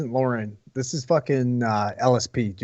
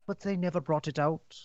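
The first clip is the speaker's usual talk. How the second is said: higher, slow put-on reviewer voice; fake reviewer voice; 5 semitones higher, much slower than usual. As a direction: read it in a prim put-on voice. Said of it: "so you have to do a fake voice?".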